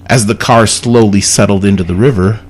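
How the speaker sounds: measured read with pauses between clauses; reading a riddle aloud. Real, not acted. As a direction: lay out the puzzle clause by clause. Reads out a riddle.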